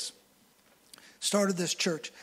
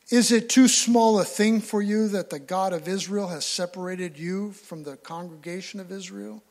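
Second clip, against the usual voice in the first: preacher reading Moses' rebuke aloud; scripture reading; 4 dB louder than usual. Acted. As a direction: read the verse out with weight.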